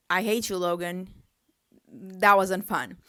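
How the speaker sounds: mock anger. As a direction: playfully curse the driver out. Mock rage at crashing driver.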